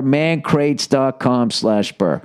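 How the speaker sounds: drawn-out slow address; very slow URL read. Shown as a demonstration. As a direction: spell out the web address slowly. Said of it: "ad read repeated slower".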